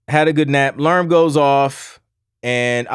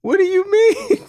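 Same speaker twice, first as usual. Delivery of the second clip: groggy confusion. Retold or imitated. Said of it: "I was like".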